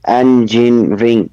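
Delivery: engineering split into three beats; counting syllables. Shown as a demonstration. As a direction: sound out engineering as en-gin-ring. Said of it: "How many syllables for engineering?".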